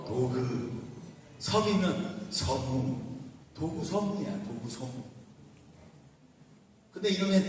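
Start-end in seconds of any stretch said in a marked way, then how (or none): 0.1-3.0 도그, 서무를 받침 없이 모음을 붙여 천천히; 독을 도그로, 섬을 서무로 일본식으로 풀어서; japanese accent korean. Shown as a demonstration. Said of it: "독 그러면 뭐라 그래야 돼". 3.5-5.0 도구 서무, 받침 없이 일본식 모음 붙여 발음; 도구 서무를 일본 사람 말투로 또박또박; japanese accent korean. Shown as a demonstration. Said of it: "독 그러면 뭐라 그래야 돼".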